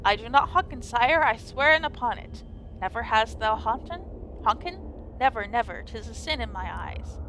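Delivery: solemn faux-archaic fairy-tale speech; lightly voiced medieval drama; mock Old English. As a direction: play it like an old legend, grave and formal. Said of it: "And very serious".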